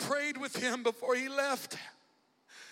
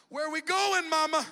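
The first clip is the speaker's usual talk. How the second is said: put-on child voice; 6 semitones higher, 7 dB louder than usual. Child asks mother in story.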